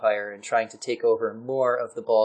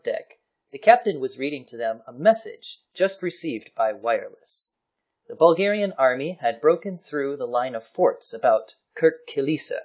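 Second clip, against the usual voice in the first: theatrical story narration; 2 semitones higher than usual. Acted. Reading an old war article to a co-host, story narration. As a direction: read it out like a gentleman's tale.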